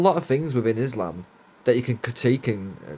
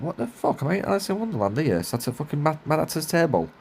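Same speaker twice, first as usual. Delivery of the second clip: incredulous; 5 semitones higher than usual. Retold or imitated. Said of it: "I was like".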